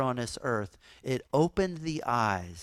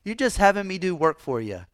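put-on higher and louder, a put-upon teen protesting; whiny student Daniel; 6 semitones higher, 4 dB louder than usual. Preacher voicing Daniel complaining to Miyagi, higher, louder. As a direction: complain like an impatient kid. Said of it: "And Daniel would be like".

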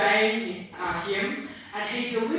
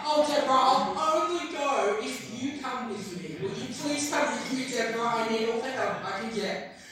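put-on whiny toddler; 3 semitones higher than usual. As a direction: lightly play Barak as a clingy little kid begging. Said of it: "Barak becomes a bit of a toddler".

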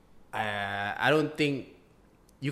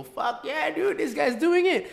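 hyped fan voice; slower than usual. Retold or imitated. Imitating urban fans.

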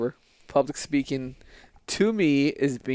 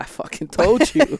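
exasperated yell; 10 semitones higher, 5 dB louder than usual. Real, not acted. Friend teasing, mock outrage.

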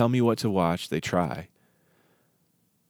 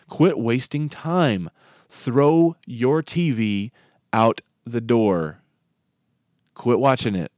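soapbox rant; 4 semitones higher, 5 dB louder than usual. Real, not acted. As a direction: preach it hard, punching each order. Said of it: "Let me step off my soapbox".

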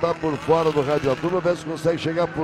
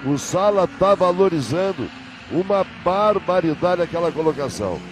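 motorsport commentator. Real, not acted. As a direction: lively race play-by-play. Live race commentary.

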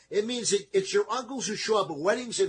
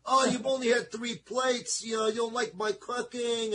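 grandma; 4 semitones higher than usual. Retold or imitated. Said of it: "my grandmother doing this to me".

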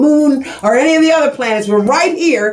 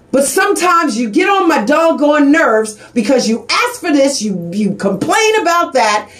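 real exasperated raised voice; emotional shout. Real, not acted. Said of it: "I get a little emotional sometimes".

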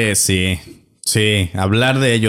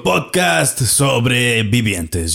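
ringmaster. Acted. Host opening like a showman.

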